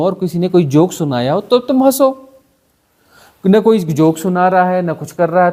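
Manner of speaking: a hint of a finger-wagging moralist; mock moral scolding. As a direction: scold like a prim moralist, half in jest. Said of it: "तुम्हारी नैतिकता बोलती".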